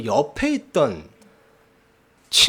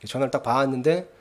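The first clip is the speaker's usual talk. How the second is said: ordinary talk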